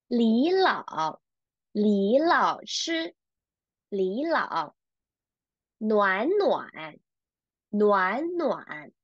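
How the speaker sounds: deliberate teacher's model, lifting "李" and first "暖"; tone-change model reading. Shown as a demonstration. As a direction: read "李老" and "暖暖" slowly as second plus third tone. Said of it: "let's read these three characters together".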